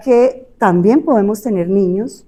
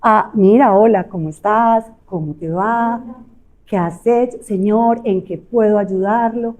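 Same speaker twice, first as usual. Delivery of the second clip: calm, clearly articulated; calm clear bank clerk; slow calm clear speech. Shown as a demonstration. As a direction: speak slowly and clearly. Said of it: "Si yo hablo despacio, tranquilo".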